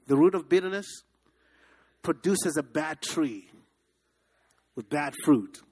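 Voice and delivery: a preacher's chant for the crowd to repeat; call and response. Shown as a demonstration. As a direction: lead the congregation word by word. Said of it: "Say that with me".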